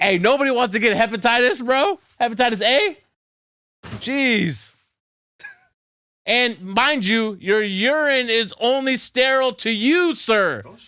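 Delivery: shouting. Warning another speaker about catching hepatitis from toilets: shouting. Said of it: "Don't shout at me, bro".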